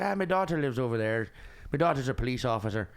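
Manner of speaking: put-on amateur Irish accent; Irish cab driver. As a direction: imitate an Irish cabbie's brogue. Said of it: "That's a terrible Irish accent".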